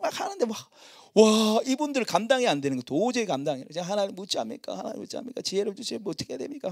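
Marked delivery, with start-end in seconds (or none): 3.8-6.7 hushed prayer. Retold or imitated. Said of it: "하다가".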